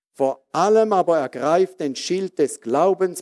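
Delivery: ordinary talk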